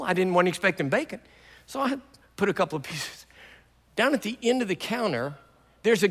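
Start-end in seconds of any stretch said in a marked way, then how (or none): none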